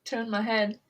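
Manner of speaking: attempted British accent, reality-show catchphrase; bad British accent. Podcast host quoting Love Island, bad British accent. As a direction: try a line in amateur British. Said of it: "so bad at British accents".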